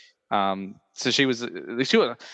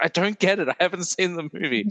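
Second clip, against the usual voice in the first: annoyed Tina; 6 semitones higher than usual. Retold or imitated. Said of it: "she's like".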